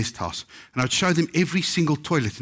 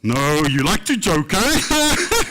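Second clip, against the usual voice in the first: teasing laugh; 6 semitones higher, 3 dB louder, much slower than usual. Retold or imitated. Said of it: "She says".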